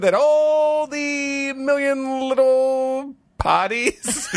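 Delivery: high, slow, strained attempt at a French chef accent; badly faked French chef accent, breaking into laughs. Shown as a demonstration. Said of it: "I can't do the accent".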